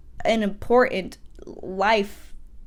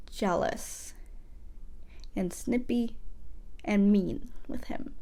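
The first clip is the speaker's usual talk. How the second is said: hushed gossip; 2 semitones lower, 8 dB quieter than usual. Real, not acted. Gossipy aside, dropping voice.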